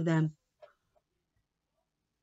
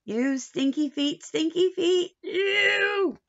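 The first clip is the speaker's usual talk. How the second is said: mock disgust; 8 semitones higher, slower than usual. Tommy disgusted by smelly feet.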